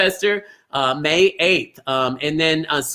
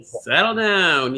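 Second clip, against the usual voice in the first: "Settle down" slow and even at normal level; gentle repeat; slower than usual. Shown as a demonstration. Host repeating his advice to the public, slow and calm. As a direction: repeat "Settle down" calmly, without the push. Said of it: "That's how I wanna tell people".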